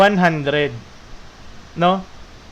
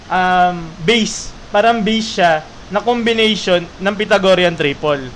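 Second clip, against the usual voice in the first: real raised teaching voice, projecting over rain. Real, not acted. Teacher explaining primitive triples over heavy rain, raised voice. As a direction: speak up to compete with the rain. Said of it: "sorry, medyo sumisigaw ako".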